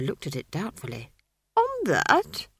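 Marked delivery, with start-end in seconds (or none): 1.6-2.5 much higher, worried; timid wizard concerned; anxious old wizard. Acted. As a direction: fuss over her. Wizard doubts.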